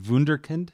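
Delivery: Wunderkind said the German way, with a V sound at the start; High German pronunciation. Shown as a demonstration. Host checking a word with the guest, Wunderkind in High German pronunciation. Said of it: "that would be High German".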